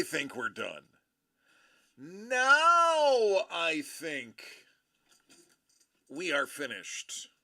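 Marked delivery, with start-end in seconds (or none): 2.0-7.3 drawn out. Real, not acted. Drawn-out announcement.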